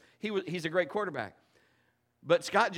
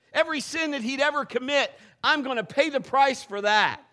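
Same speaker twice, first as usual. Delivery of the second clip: louder, driving sermon delivery; fervent preaching; 5 dB louder than usual. Acted. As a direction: preach it with conviction to the congregation. Preaching with rising force.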